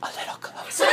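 very soft, voiceless coaxing; creepy whisper. Acted. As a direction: whisper it, luring them nearer. Joseph beckons brothers nearer still.

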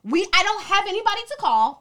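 high, loud put-on white girl protest. Locked out by the dorm mother, white girl voice. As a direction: plead indignantly in a white girl voice. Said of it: "I got my white girl voice".

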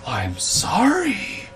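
soft, slow, high timid voice; meek apology. Retold or imitated. Stunned boss apologizing to the yelling woman, timid. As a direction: shrink away as you apologize. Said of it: "he's just in there".

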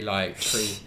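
"tree" said the Irish way, with a t sound for three; a light Irish "tree" without the th; Irish accent. Shown as a demonstration. Friend showing the Southern Irish accent, light Irish "tree". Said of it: "Conor McGregor's kinda like the really".

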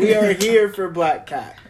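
loud, high cheer; excited. Real, not acted. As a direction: cheer it out slowly. Cheering for Black Cap.

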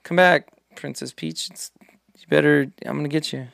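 Jack Black voice. Retold or imitated. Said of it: "Jack Black just being like".

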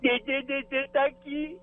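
put-on high, childlike reply with a giggle; baby voice. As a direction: answer like a toddler called by dad. Baby-talk game. (voz de bebê)

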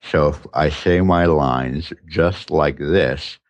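talking around a finger in the mouth. Shown as a demonstration. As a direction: say it with a finger between the teeth. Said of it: "So I'll do it with my finger right now".

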